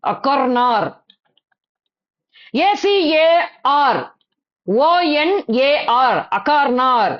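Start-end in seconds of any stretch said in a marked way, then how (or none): 0.0-0.9 அக்கர்னார் with each R firmly sounded; emphasised silent R. Shown as a demonstration. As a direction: press on the normally silent R in அக்கர்னார். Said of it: "அப்படி அழுத்தமா pronounce பண்ணேன்".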